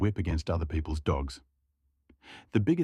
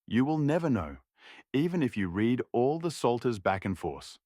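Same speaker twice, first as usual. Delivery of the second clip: raised, certain tipsy Cossack; knowing old Cossack; 4 semitones higher than usual. Acted. Dorosh tells the young shepherd no one can know, raised and certain. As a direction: insist nobody can ever tell.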